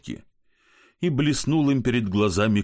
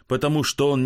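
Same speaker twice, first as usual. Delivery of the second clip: ordinary delivery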